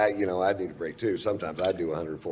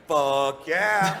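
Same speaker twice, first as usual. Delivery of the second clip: enthusiastic yes; 9 semitones higher, 6 dB louder than usual. Shown as a demonstration. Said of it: "You go".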